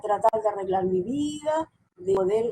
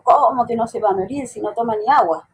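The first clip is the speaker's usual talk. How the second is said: re-enacted disbelief, louder burst on the question; incredulous objection; 5 dB louder than usual. Daughter retelling her answer to God about her dying mother, incredulous. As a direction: argue back in retold astonishment.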